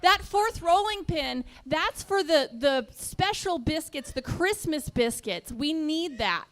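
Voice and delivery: lightly voiced wife making her case; hint of a wife arguing for her things; mildly insistent pleading. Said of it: "his wife said we needed it".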